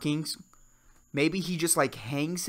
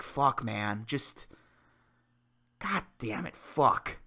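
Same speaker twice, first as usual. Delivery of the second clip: much softer, deflated swearing; resigned mutter; 6 semitones lower, 6 dB quieter, slower than usual. Retold or imitated. Telling the audience about giving in, soft defeated swearing. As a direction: give up under your breath. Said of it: "you're like".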